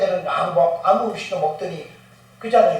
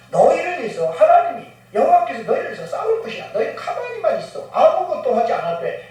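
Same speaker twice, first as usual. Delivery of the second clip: reassuring confession; 6 semitones higher than usual. Retold or imitated. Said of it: "이런 고백까지 해요".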